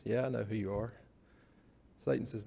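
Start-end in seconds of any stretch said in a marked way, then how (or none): 0.0-0.9 calm. Retold or imitated. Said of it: "very calmly says".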